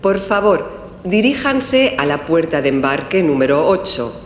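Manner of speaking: formal public address announcement; airport announcement. Acted. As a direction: call passengers to their gate over the terminal speakers. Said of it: "Está en el aeropuerto y oye el siguiente aviso".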